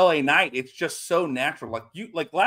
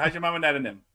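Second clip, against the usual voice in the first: put-on Cajun accent; much faster than usual. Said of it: "that's what we say".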